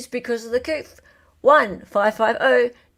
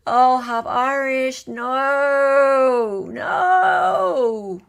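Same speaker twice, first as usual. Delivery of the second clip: mock lament; 3 dB louder, much slower than usual. Mock lament for a player's miss.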